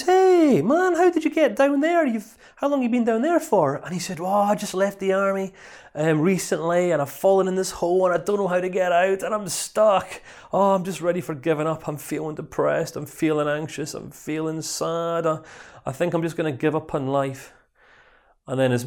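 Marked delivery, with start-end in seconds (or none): 0.0-3.8 much higher and louder, matey surprise; hammed-up cheery shout; excited greeting. Army mate greets stuck friend. 4.2-17.5 higher, self-pitying lament; mock woeful moaning; despairing man. Man pours out his despair.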